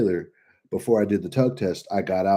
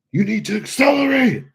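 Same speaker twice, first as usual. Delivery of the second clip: higher, louder sudden shout; mock shout; 13 semitones higher, 5 dB louder than usual. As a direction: bark the order like an angry examiner. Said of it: "Like that. Like, he fucking shouted".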